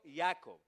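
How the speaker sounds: Jacob said firmly and loud, leading the congregation; Hebrew name said aloud. Shown as a demonstration. Preacher leading the church in repeating Jacob. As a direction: call out Jacob for them to repeat. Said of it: "Diga conmigo".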